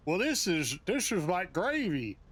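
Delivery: attempted English accent, poorly done; failed English accent. Imitating Brits puzzled by American gravy, bad English accent. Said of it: "I don't have an English accent".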